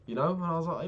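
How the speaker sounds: ordinary talk, nothing marked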